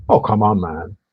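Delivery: ordinary talk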